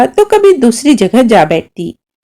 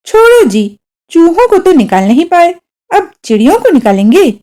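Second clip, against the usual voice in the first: higher, teasing mother, quick at the end; sarcastic jab; 6 semitones higher than usual. A narrator's reading. Mother mocking father who failed with the mice, sarcastic and higher. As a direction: needle him with mock sympathy. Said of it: "माँ ने व्यंग से कहा".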